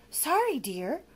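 high little whimpered apology; meek whimper. Acted. Monster apologizing to the witch, whimpering. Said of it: "whimpered Lamont".

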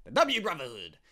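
hammed-up reveal; dramatic name. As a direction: proclaim the name grandly. Dramatic reading of group name.

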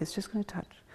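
"touch" set apart in a soft breathy whisper; emphasis on touch. Shown as a demonstration. Teacher stresses "touch" to students, whispered softly. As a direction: lean on "touch" by dropping to a hush. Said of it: "I emphasize the word touch".

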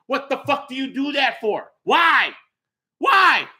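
raging gamer. Real, not acted. Raging at EA Sports.

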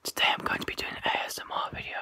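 loud whisper into the phone; stage whisper. Real, not acted. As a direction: whisper loudly, half-voiced. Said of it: "whispering very loudly towards my phone".

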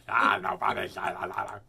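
teasing lisped singsong; mock lisp, teasing; lisping impression. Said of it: "I have a lisp now".

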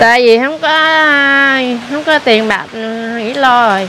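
low-pitched, tearful explanation in halting phrases; real tearful. Real, not acted. Woman tells the man she has no money left, tearful. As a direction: explain through tears, pausing between phrases. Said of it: "Vậy sao khóc vậy?".

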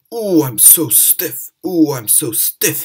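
slow, groaning complaint. Acted. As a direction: groan it out like aching joints. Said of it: "he groaned".

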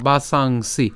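বাসাংসি said as "baa-saang", then "si"; teacher carefully modelling বাসাংসি; Sanskrit pronunciation demo. Shown as a demonstration. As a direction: hold the nasal in বাসাংসি, then add "si". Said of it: "বাসাং পর্যন্ত উচ্চারণ করে তারপরে সি".

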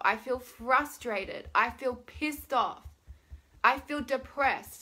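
slow, emphatic venting; drawn-out complaint; venting emotion. Shown as a demonstration. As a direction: lean into each feeling word. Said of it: "get into that emotion".

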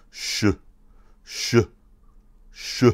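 sh followed by a short "u", "shuh"; separate, clear takes of sh with a clipped vowel; Mandarin ten. Shown as a demonstration. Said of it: "it's a sh and then u at the end".

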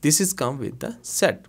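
very slow, word by word; slow teaching read. Shown as a demonstration. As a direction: drill it slowly for the class. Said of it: "slow translation for learners". (बहुत धीरे पढ़ाते हुए)

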